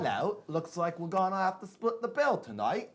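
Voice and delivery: British try that drifts Australian; slow, stumbling British that sounds Australian; attempted British accent. Shy host attempts British, ends up Australian. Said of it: "It sounds a little Australian".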